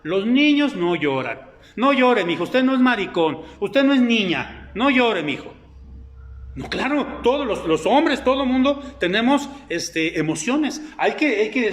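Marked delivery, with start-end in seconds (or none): 0.0-5.5 a hint of a stern father scolding; scolding parent. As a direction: scold the little boy like a strict dad. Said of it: "en casa nos enseñaron".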